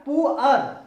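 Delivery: "पू अर" loud, split into "poo" and "ar"; syllable-by-syllable pronunciation. Shown as a demonstration. Teacher giving the assembled word, loud pronunciation demo. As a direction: punch out "पू अर" as two syllables. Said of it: "क्या हो गया?".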